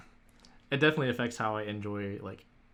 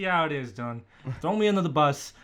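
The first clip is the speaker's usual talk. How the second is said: raised, loud mock complaint; mock aggrieved; 3 semitones higher, 6 dB louder than usual. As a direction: play indignant at being shown up. Teasing complaint at co-star's cheating.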